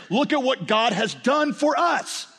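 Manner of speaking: proclaimed high and slow; gospel declaration. Acted. Preacher declaring the gospel to the congregation, high and slow. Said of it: "The gospel declares".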